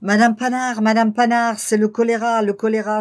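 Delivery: shouting the news to his wife in panic; alarmed cry. A narrator's reading. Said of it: "Il fit un bond et cria".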